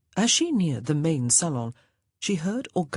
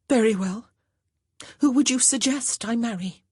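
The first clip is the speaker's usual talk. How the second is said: resigned; 7 semitones higher, 3 dB louder than usual. A narrator's reading.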